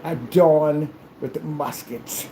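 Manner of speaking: mock-formal challenge, slowly declaimed; stately, measured duelling voice; old-time duelist. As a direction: issue a hammy gentleman's challenge. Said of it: "back in the old days where they slap".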